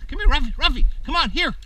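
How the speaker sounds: high, loud urgent call; calling the dog. Real, not acted. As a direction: call him back before he runs off. Calling puppy away from van.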